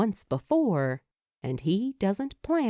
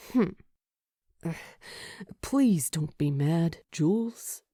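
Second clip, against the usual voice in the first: mild begging; 3 semitones lower than usual. A narrator's reading. Luke begs Julie not to be mad, mild pleading. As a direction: beg her gently not to be angry. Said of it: "he begs".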